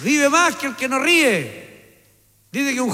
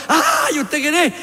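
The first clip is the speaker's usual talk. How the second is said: startled gangoso yelp; 3 semitones higher, much slower than usual. Retold or imitated. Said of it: "era gangoso".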